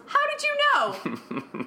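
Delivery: high, slow, wide-eyed wonder; naive Rose voice. Retold or imitated. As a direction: ask it high and slow, innocently. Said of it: "And Rose goes".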